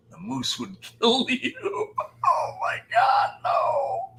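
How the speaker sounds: squealing high laugh through the words; cracking up. Real, not acted. Streamer cracking up at his own moose joke to chat. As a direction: laugh helplessly, pitch flying up.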